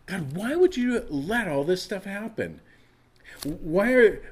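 questioning God. Acted. Struggling believer asks God why evil happens, exasperated plea. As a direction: cry up to God, baffled. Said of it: "If you're struggling with".

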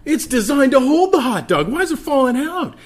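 put-on high, loud little-kid outrage; childish tantrum. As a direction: pastor playing his four-year-old self losing it over a hot dog. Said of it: "And I would throw a fit".

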